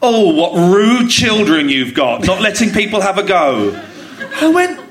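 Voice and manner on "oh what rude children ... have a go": slow, projected imitation of a disapproving stranger; pointedly loud remark. Woman complaining aloud about another parent's children, pointed. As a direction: say it slowly for everyone to overhear. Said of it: "this woman said really loudly".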